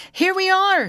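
very high, loud hail; shout. A narrator's reading. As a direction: shout out to searchers far off. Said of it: "she shouted".

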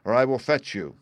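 bawled command, high and loud. A narrator's reading. Bluebeard with scimitar to his wife, bawling. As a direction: bellow an order to come down. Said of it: "bawled as loud as he could".

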